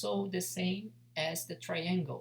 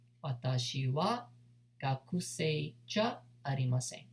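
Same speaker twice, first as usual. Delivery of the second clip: slow demo; 4 semitones lower than usual. Shown as a demonstration.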